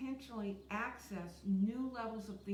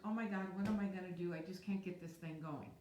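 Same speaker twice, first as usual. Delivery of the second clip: mock panic; 2 semitones lower than usual. Coach imitating a frantic student's question, mock panic. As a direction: act out a stuck, worried asker. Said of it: "compared to asking the question".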